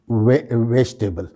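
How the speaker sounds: "वेजिटेबल" said VESH-tebal; "वेजिटेबल" without the middle i; correct pronunciation. Shown as a demonstration. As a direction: say "वेजिटेबल" as three syllables, vej-te-bal. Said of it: "सही pronunciation क्या है".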